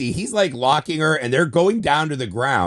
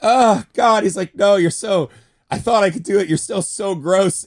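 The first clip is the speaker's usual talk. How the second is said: higher, louder hammed-up horrified whine; imitating a horrified, disgusted hero; mock horror; 6 semitones higher, 4 dB louder than usual. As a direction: plead in disgust, slowing at the end. Retelling hero's horror at the ghost.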